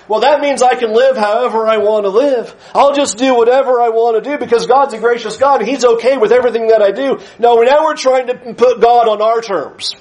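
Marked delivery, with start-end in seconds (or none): 0.1-7.2 fast, breezy self-justifying; a mock of a carefree sinner; careless mock. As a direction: rush it like a flippant excuse. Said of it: "we do not have the right to go".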